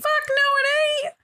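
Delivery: high, sharp protest; indignant. Real, not acted. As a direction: shoot it down indignantly. Arguing Kraken is male.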